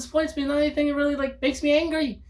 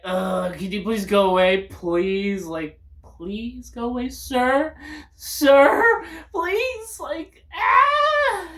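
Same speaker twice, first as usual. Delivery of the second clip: mock annoyed plea; much slower than usual. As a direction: beg them to leave, losing patience. Acted telling a stranger off.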